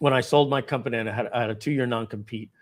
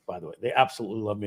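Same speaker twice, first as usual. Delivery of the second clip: ordinary delivery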